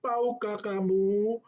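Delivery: high, loud scolding teacher that climbs to a shrill cry of Nakal; a teacher telling off a naughty child, pitched far up and rising; scolding Sunday school teacher. Retold or imitated. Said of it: "Dia marah dengan lembut".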